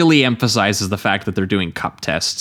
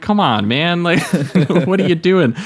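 exasperated rant; 9 semitones higher than usual. Retold or imitated. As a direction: throw it at them like he's sick of them. Quoting Brooks' rant continues.

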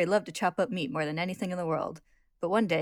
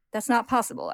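higher, louder protest; indignant denial; 6 semitones higher, 5 dB louder than usual. Acted. Al denies he is fabricated, indignant. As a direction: object sharply, pitch raised. Al rejects Barry's claim, unsettled.

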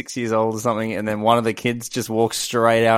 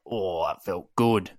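very slow, soft, dreamy "Oh, that felt good."; mock contentment; 5 semitones lower, 7 dB quieter, much slower than usual. Joking about enjoying a stubbed toe, soft slow mock bliss. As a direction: sigh it out slowly, mock blissful.

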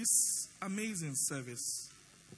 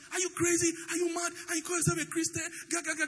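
angry shout; 5 semitones higher, much faster than usual. Retold or imitated. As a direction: shout him down, outraged. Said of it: "He started shouting at me".

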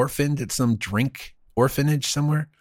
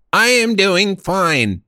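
higher, slow, louder Russell Crowe; 7 semitones higher, 3 dB louder, slower than usual. Acted. Host asks co-host to do Russell Crowe, slow and high. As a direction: drag out each word as Crowe. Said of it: "you do Russell Crowe".

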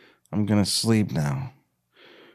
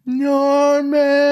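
high long call of his name; calling from off screen; 3 dB louder than usual. Acted. Michelle calls to Norman from off screen. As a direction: call out to him from afar.

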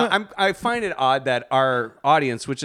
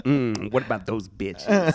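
mock-seductive, lower-pitched come-on; rapper impression; 4 semitones lower than usual. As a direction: lick your lips around the words. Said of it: "L L Cool J at the pound".

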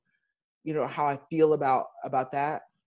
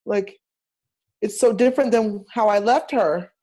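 rising higher toward she's changed; dismayed surprise; 5 semitones higher than usual. Retold or imitated. Returning to Motown, higher and higher dismay at her baby. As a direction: mourn the show like a changed child. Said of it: "I was like".

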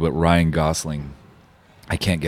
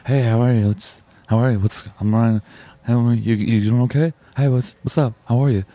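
higher, casual faux Brooklyn-Canadian greetings; Ryan Gosling; 4 semitones higher than usual. Guest auditioning an actor's voice on request, friendly, subtle impression. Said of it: "let's hear again a little bit".

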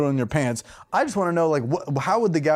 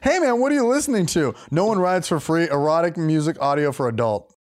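mock dude; 3 semitones higher than usual.

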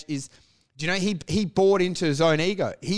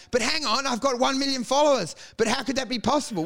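higher, baffled disbelief; mock bewildered; 5 semitones higher than usual. Comic baffled his followers don't laugh, mock disbelief. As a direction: sound stunned he isn't funny. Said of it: "And then you're like".

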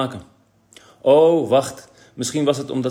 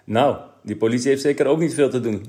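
laughing; 4 semitones higher, 6 dB louder than usual. Acted. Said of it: "lachte Kees".

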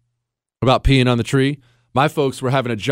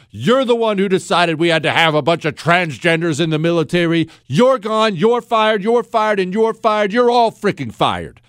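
a tough boss firing generals, raised pitch; mock boss firing generals; 6 semitones higher than usual. Host acting a boss firing the generals, mock stern. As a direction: bark firings at useless generals.

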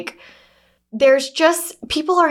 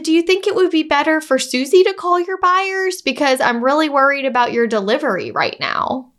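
sweetly pointed; 4 semitones higher than usual. Retold or imitated. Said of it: "I said".

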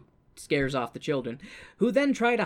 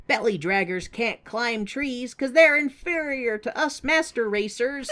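higher, haughty snob voice; smug character voice; 7 semitones higher, 3 dB louder than usual. Acted. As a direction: sneer it like a superior snob. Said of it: "being like".

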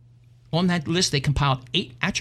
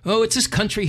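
lament; 8 semitones higher, 3 dB louder than usual. Acted. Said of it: "he lamented".

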